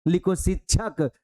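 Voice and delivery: slow, measured dictation of single words; dictating teacher. Retold or imitated. Teacher dictates spelling words to small children, slow and measured. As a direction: read each word out slowly for pupils to write down. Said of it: "सूत्र लेख जब कई बार बचपन में लिखाते हैं".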